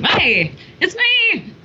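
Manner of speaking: pleading for attention. Acted. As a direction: wheedle for attention, voice lifted. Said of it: "I'm just like".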